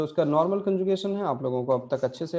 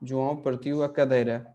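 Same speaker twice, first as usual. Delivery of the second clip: slow example reading; much slower than usual. Shown as a demonstration. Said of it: "example sentence".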